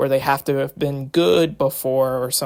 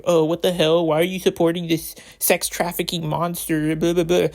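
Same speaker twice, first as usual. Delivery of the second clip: mock outrage; 4 semitones higher than usual. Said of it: "people being all like".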